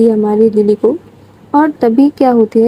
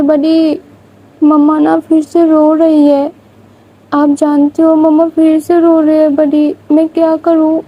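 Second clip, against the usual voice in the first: put-on higher childlike voice, lightly worried; upset little girl; 4 semitones higher than usual. Little Vania tells her didi on the phone that mama is crying, higher childlike worried voice. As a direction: play a small girl telling her big sister mama is crying.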